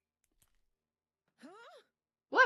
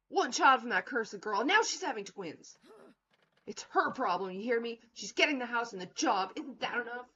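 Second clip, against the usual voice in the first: louder, scolding wife; angry wife; 4 semitones higher, 5 dB louder than usual. Acted. Wife blaming Paul for the twins, angry. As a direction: tear into her husband, higher and louder.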